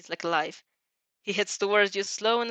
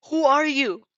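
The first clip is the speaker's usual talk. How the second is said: louder, higher vicious demand; a touch of a vicious villain; 5 semitones higher, 6 dB louder, slower than usual. Acted. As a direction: spit the question out unforgiving. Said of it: "voice vicious and unforgiving".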